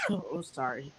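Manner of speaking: recovering from a coughing fit; after choking. Real, not acted. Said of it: "I was choking".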